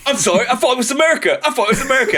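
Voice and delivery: put-on drunk Randy. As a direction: ramble like a drunk dad. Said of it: "he's all like".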